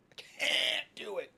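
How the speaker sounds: slow, high, drawn-out groan of defeat; despairing. Real, not acted. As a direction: stretch it out, exasperated. Exasperated giving up.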